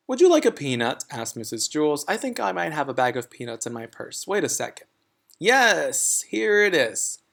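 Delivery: lightly voiced kindly teacher; sweet teacher voice. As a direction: coax it out like a nice teacher. Mrs Jewls voiced in story.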